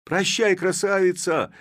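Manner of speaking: high, loud cry; shouting farewell. A narrator's reading. Another lad shouts goodbye, loud cry. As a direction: cry out to the beauty. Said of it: "вскричал другой".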